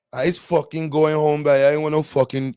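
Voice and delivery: lightly put-on Guyanese accent; Caribbean lilt, Guyanese style. Streamer correcting Trini toward Guyanese, Guyanese accent. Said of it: "that's more Guyanese".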